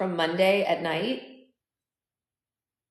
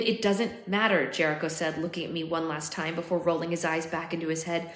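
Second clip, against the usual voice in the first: measured, expressive audiobook reading; story narration. A narrator's reading. Narrator telling of finding his dying future self, story narration. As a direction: read it as an unfolding dramatic story.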